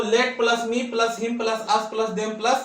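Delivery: very slow, each part separated; slow formula. Shown as a demonstration. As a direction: dictate the formula piece by piece. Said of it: "teacher spells out formula". (धीरे-धीरे सूत्र लिखवाना)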